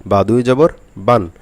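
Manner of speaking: very slow বা দুই জবর বান; slow model reading. Shown as a demonstration. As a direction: spell it out slowly for students. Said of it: "তাড়াতাড়ি পড়তে হবে". (ধীরে ধীরে বা দুই জবর বান)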